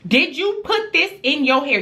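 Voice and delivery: scolding mom demanding an answer; mama checking her kid. Retold or imitated. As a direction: confront the child, pressing harder on the repeat. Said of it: "Y'all know how mamas are when we gotta check our kids".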